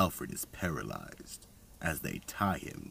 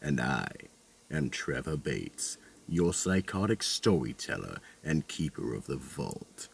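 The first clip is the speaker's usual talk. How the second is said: horror host; 6 dB louder than usual. Acted. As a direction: sign off like a creepy horror host.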